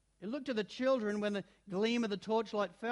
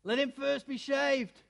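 cruel command; 7 semitones higher, 5 dB louder than usual. A narrator's reading. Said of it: "said the witch".

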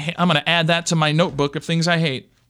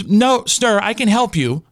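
mock phone rep; 4 semitones higher than usual. Imitating the rep's refusal.

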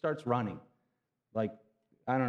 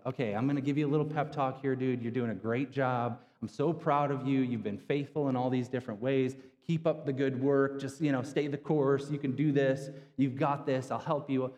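mock pep talk; 2 semitones higher than usual. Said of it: "the angel doesn't come and go".

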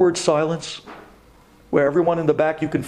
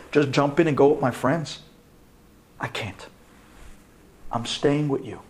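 tender refusal; 5 semitones lower, 4 dB quieter than usual. Retold or imitated. Tender vow to father.

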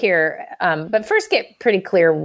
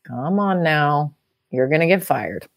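lightly voiced inner critic warning; nagging inner voice; 4 semitones lower than usual. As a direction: drag it out like a gloomy inner critic. Voicing the doubting inner voice.

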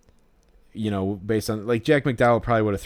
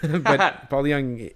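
slow, laughing through the name; 5 semitones higher, 3 dB louder, much slower than usual. Real, not acted. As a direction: chuckle it out in disbelief. Laughs at his own odd pick.

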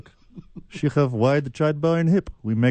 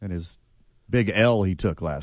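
mock talk-show host; 4 semitones lower than usual. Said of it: "You doing a little Maury?".

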